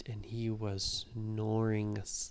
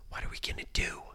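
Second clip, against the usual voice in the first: whispered; 3 dB quieter, faster than usual. Acted. Kids hiding from giant.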